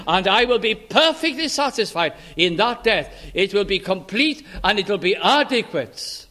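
preacher voicing God with rising insistence; emphatic divine promise. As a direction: declare it firmly as a solemn promise. Preacher voices God's promise with emphasis.

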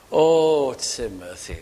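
an aching, hushed appeal to Timothy; heartfelt plea. Retold or imitated. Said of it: "Paul now writing this with all his heart".

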